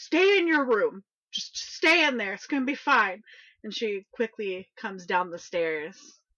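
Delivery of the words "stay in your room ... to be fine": very loud, high, urgent yell. Game master voicing Martha calling from upstairs to the waking player: quickly yelling out. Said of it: "quickly yell out".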